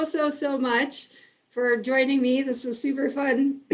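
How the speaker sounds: strained, losing voice; a voice that's going hoarse; losing her voice. Real, not acted. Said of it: "Sorry if I'm losing my voice".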